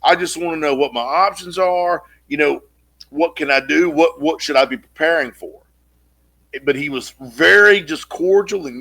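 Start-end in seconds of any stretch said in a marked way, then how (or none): 0.0-5.6 laid on thick. Retold or imitated. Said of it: "laid it on thick as honey".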